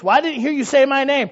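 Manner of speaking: scolding parent pitching the voice up; acted high-pitched parental demand. Shown as a demonstration. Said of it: "Did you hear my voice go high".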